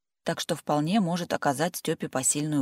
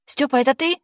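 high anxious call through the door; frightened call to the landing; loud cry; 10 semitones higher, 7 dB louder than usual. A narrator's reading. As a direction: shout her question at the door. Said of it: "но тут же громко закричала".

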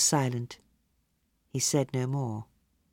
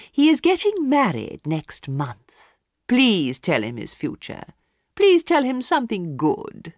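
higher, louder, gushing society lady; gushing hostess; 5 semitones higher, 4 dB louder than usual. A narrator's reading. Hostess introducing her favourite to the palmist, gushing. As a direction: sell him to the palmist.

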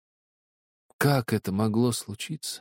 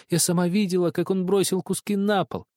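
high, insistent accusing sister; 10 semitones higher than usual. Acted. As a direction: press the accusation. (обвиняющим тоном)

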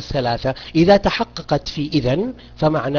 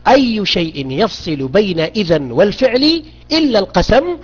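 ordinary talk, nothing marked

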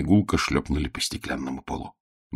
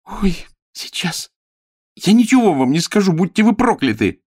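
high, loud tearful curse; girl defying the minister through pain; defiant cry; 13 semitones higher, 5 dB louder than usual. Acted. Girl defies torturer.

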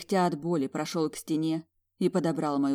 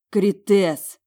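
high, loud exhaled cry of his name; high, loud call; 4 semitones higher, 11 dB louder than usual. Acted. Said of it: "выдохнула я".

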